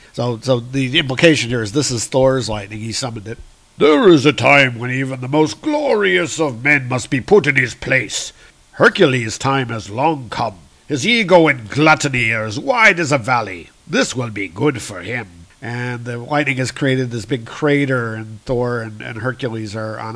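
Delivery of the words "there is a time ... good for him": voiced god's pronouncement. God's pronouncement in comic reading.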